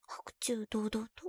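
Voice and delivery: slow unvoiced tease; slow teasing whisper. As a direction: whisper it slowly, provoking.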